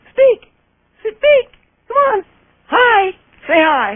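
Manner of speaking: squeaky pet talk. Real, not acted. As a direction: squeal at the dog to make it speak. Coaxing dog, very high.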